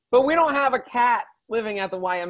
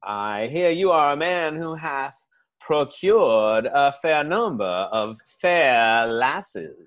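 mock-courtly southern accent, slowing down; genteel southern accent; 4 semitones lower than usual. Southerner asking a local about lasses, genteel southern accent. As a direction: stretch it out like a southern gentleman. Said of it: "genteel way that you guys talk".

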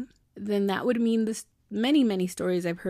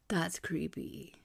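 "That's creepy." whispered, soft and slow; creeped-out whisper; 7 dB quieter, slower than usual. Real, not acted. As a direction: hush it like it gives you chills. Spooked whisper over the story.

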